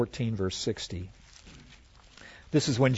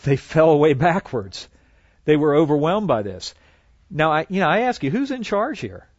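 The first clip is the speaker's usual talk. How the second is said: louder, building to a higher "who's in charge here"; rising emphasis; 3 semitones higher, 5 dB louder than usual. Real, not acted. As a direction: preach it, then ask the question loudly. Climax on Jesus's authority.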